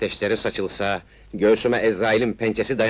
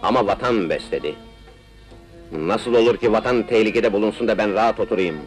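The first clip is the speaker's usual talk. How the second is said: impassioned; 3 semitones higher than usual. Acted. Patriotic speech building up.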